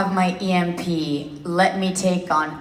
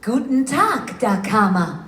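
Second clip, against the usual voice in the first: deliberate, performed character hello; in-character greeting. Shown as a demonstration. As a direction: greet a fan as a German-speaking character. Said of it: "in your voice could say hi".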